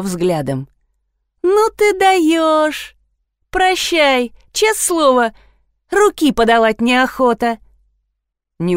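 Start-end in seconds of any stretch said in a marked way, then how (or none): 1.4-7.6 high-pitched exasperated outburst, drawn out at first; indignant. A narrator's reading. Alla breaking off with Lida, indignant.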